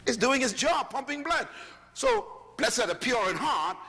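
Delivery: preaching shout. Real, not acted. Preacher quoting scripture, shout heard.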